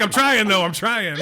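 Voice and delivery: retold plea through laughter; high, amused mock protest; laughing protest. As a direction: laugh helplessly as you quote your own reply. Retelling his reply amid group laughter.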